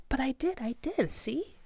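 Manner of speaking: high, excited insisting; eager protest. Acted. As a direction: proudly insist you did it.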